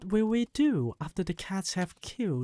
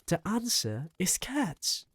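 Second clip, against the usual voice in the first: mock shout; 3 semitones higher than usual. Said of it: "I shouted".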